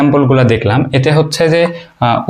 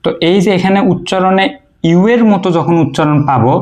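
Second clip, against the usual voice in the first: ordinary talk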